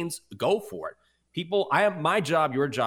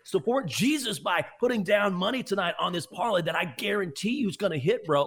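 mock tout; 7 semitones higher than usual. Mocking tout pitch, continued.

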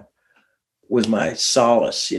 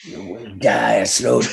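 slow mock Italian mobster threat; imitated Italian friends; slower than usual. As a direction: draw it out like a menacing Italian. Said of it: "They would be like going".

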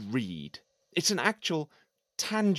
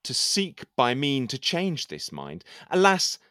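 poem recitation; 3 dB louder than usual. Acted. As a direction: declaim it like a lovesick courtier. Recites his poem aloud.

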